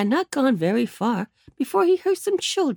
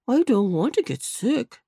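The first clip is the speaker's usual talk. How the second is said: put-on old rabbit gentleman; 3 semitones higher than usual. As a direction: reassure Nurse Jane, unhurried. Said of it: "said Uncle Wiggily".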